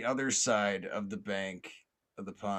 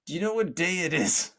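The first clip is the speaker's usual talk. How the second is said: high, raised acted call; yelling police officer; 8 semitones higher, 6 dB louder than usual. Police officer checks on man in pond, yelling. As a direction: yell the question across water. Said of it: "And then he yells".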